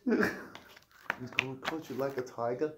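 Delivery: slow, clumsy mock-British copy; badly faked British accent; attempted British accent. Guest copying the host's line, failed British accent. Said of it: "I can't do accents".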